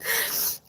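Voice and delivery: soft, voiceless sob; quiet catch of crying breath; tearful sob. Real, not acted. Daughter remembering her mother's death, soft sob.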